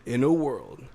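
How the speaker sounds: trailer opener with a falling close; movie trailer voice. Pretend. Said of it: "doing them in the movie trailer guy's voice".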